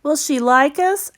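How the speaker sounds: put-on high child voice asked softly; a little boy's hopeful question, hushed; young Caleb, softly. A narrator's reading. Caleb asking his sister, soft high child voice. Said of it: "asked Caleb very softly".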